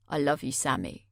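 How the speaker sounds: a chillingly tender murmur; eerie tender line. A narrator's reading. Jay's eerie whisper.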